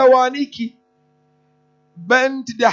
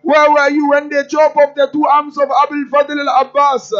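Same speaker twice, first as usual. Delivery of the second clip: louder, tearful cry of mourning; grieving lament; 4 dB louder than usual. Acted. Sakina calls on her grandfather, mourning and tearful.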